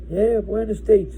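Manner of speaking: mocking inmate. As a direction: drawl it out like he's stating the obvious. Inmate mocks his answer.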